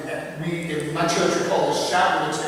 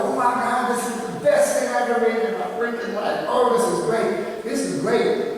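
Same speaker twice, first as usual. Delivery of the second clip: higher, thrilled gush; excited students; 6 semitones higher than usual. Retold or imitated. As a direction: gush like a kid who just made their best drawing. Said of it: "everyone's all excited".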